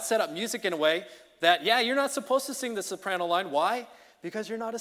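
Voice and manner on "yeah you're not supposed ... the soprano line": normal talking voice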